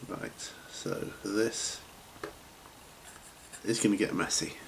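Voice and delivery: mumbling around a paintbrush; paintbrush in mouth. Real, not acted. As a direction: talk with a brush between your teeth. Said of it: "paintbrush in my, mouth at the time".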